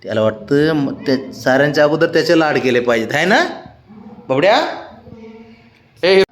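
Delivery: gentle, settling voice for an eager dog; soothing pet. Real, not acted. Calming excited pet down.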